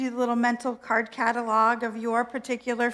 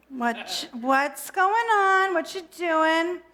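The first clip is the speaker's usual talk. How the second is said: put-on breezy valley girl, slow and higher; valley girl God; 4 semitones higher, much slower than usual. God checks in on the stressed speaker, valley girl breezy. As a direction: drawl it like a chirpy valley girl. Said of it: "God is definitely kind of a valley girl".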